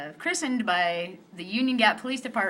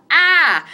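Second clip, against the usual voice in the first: higher, louder mock yelp of alarm; 7 semitones higher, 11 dB louder than usual. Woman reenacting being thrown in the cop car, mock yelp. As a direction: yelp as if flung against the window.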